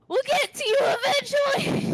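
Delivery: very high, strained call; shouting back. Acted. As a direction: holler up to someone far away. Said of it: "Adrian shouts back".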